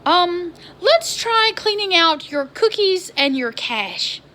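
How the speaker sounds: high, slow, put-on polite tech support voice; mock the patient help-desk man, drawn out; overly sweet customer service voice, slowed down; imitating the IT guy. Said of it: "He says".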